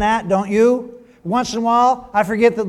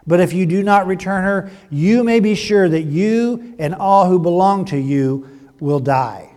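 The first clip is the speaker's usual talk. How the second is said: a firm, louder divine warning, slowing at the end; stern voice of God; 4 dB louder than usual. Acted. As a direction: speak as God laying down the terms. God warns the king in dream.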